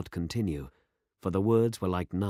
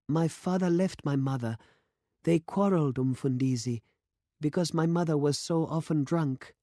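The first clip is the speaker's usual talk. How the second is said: put-on a girl's higher voice, timid and hurt; young girl; 9 semitones higher than usual. A narrator's reading. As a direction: voice the young girl shyly telling of her parents. Girl's voice in the story.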